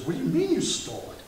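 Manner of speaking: high, incredulous question; stunned officer can't believe it; surprised officer. Acted. Officer reacts in disbelief to the speeder's confession, surprised.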